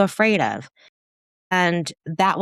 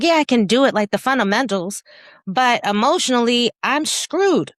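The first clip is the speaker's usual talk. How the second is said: rueful; 6 semitones higher, 4 dB louder than usual. Retold or imitated. Self-doubt confession, raised.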